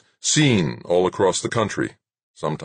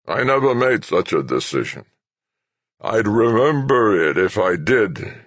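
indignant denial; 6 semitones higher, 4 dB louder than usual. Acted. Old general denies angrily.

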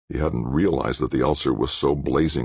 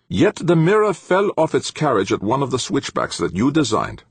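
high-pitched sour, accusing professor; 12 semitones higher, 4 dB louder than usual. A narrator's reading. Professor pinning the fallen mirror on his engineer, sourly. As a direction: accuse as if sucking lemons. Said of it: "forced to swallow a half dozen lemons".

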